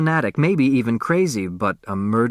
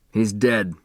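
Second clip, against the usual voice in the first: gently; 2 semitones lower than usual. Acted. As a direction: break it to her gently. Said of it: "gently turning her away".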